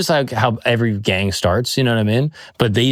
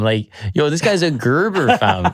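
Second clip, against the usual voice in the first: put-on new Toronto slang accent; 3 semitones higher than usual. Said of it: "do a guy from Toronto".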